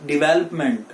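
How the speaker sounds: डेवलपमेंट as di-VELP-ment; alternative pronunciation. Shown as a demonstration. Teacher offering another option, डेवलपमेंट as di-VELP-ment. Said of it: "आप इसको डेवलपमेंट भी बोल सकते हैं".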